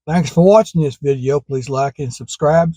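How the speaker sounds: slightly slurred with a cold, numb tongue; frozen tongue. Real, not acted. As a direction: get the words out past a frozen tongue. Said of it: "Sorry, my tongue".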